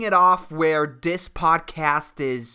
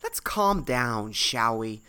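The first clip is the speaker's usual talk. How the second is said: slow, lower self-soothing; calming down; 5 semitones lower, slower than usual. Real, not acted. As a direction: bring yourself down from a rant, unhurried. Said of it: "let me just calm the fuck down".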